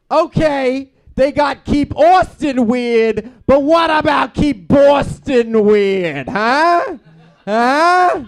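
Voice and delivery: high, loud, drawn-out Boston rant; indignant shout. Retold or imitated. To his friend Kevin about the neighborhood, shouting. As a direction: yell it like a fed-up local. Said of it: "I says".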